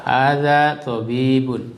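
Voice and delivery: slow, clear "Hadza tabibun"; slow model reading. Shown as a demonstration. Teacher slowly models "Hadza tabibun" for the students to repeat. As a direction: stretch out "Hadza tabibun" so the class can follow. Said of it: "Coba diikuti".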